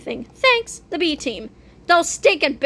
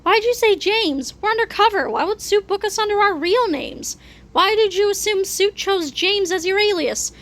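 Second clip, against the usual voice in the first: higher-pitched, indignant bickering; exasperated undercover agent; 6 semitones higher than usual. Acted. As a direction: scold a partner for blowing the cover. Undercover partners bicker over names.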